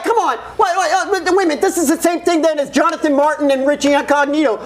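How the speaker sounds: worked up, talking over him; excited protest. Real, not acted. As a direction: raise your voice to object. Heated sports debate objection.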